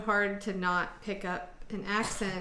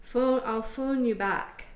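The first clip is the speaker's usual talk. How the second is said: put-on slow, drawn-out Canadian accent, a touch higher; Canadian accent, slow and lightly raised; grandmother's Canadian accent; 5 semitones higher, 5 dB louder, slower than usual. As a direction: imitate a grandma's Canadian "phone" with an ah vowel. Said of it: "my grandmother would say".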